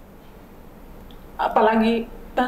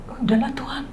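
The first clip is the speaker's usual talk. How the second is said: whispered sigh; 2 semitones higher than usual. Retold or imitated. Mother quotes her sigh to God.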